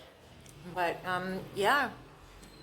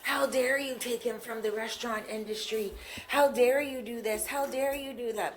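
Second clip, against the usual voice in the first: outraged quote; 6 semitones higher than usual. Retold or imitated. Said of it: "they were all saying".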